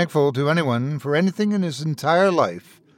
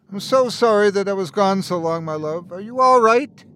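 higher, urgent call from another room; 6 semitones higher than usual. Acted. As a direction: call to her, worried and rising. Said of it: "he called".

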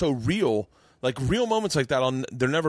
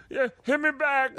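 Dave Chappelle's Aquaman voice; 14 semitones higher than usual. Retold or imitated. Retelling Chappelle's Aquaman bit, goofy high phone greeting. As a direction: stretch it out like a lazy phone hello. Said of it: "but he does the voice".

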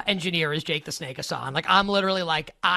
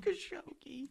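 whispered, voiceless echo; hushed disbelief; 10 semitones higher, 14 dB quieter, slower than usual. Real, not acted. Host echoing an outrageous heckle, whispered. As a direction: repeat it under your breath.

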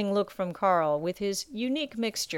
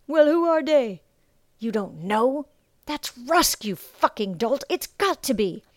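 much higher and louder, heated and incredulous; excited sailor; 6 semitones higher, 5 dB louder than usual. Acted. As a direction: shout down your ignorant mate. Sailors argue about Rusk.

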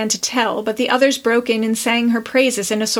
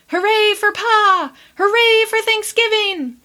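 roaring cheer; 10 semitones higher than usual. A narrator's reading. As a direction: cheer for Pa at full voice. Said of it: "the small boys roared".

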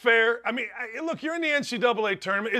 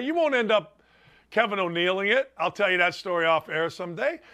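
ordinary talk

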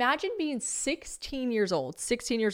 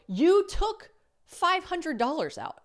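higher, slow, lightly voiced accusing friend; mock accusing James; 9 semitones higher, 3 dB louder, slower than usual. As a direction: James questions her casino money, mock accusing tone. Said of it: "And James is like".

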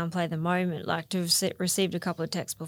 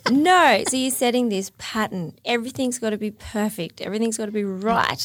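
imitating the psychologist; 3 dB louder than usual. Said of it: "they're like".

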